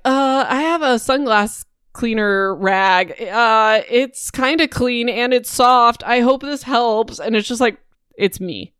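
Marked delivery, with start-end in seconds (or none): 0.0-7.2 high, slow, unsure helper; awkward comforter. Retold or imitated. Millie awkwardly comforting crying Aubrey, high and halting. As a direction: offer the rag haltingly, pitched up. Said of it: "she's like".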